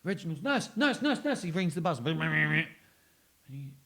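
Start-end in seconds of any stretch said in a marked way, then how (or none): 0.0-1.4 rising frantic calls; panicked call for nurse. Retold or imitated. Old man calling the nurse in a panic. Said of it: "And he's like".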